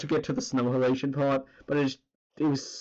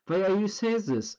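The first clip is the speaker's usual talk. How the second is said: put-on German accent, higher, v for w; mock German accent; 6 semitones higher than usual. Streamer quoting Flula's line in a German accent. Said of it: "the German dude".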